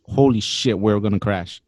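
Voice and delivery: ordinary talk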